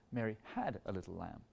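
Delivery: "had" weighted, line falling off softly; stress on HAD. Shown as a demonstration. Conductor showing weight on the second beat. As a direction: lean on "had", quiet and falling. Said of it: "We could also emphasize".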